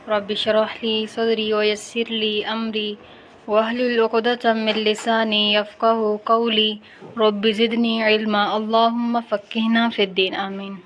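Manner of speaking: slow, measured dua; measured devotional recitation; Arabic prayer recitation. Acted.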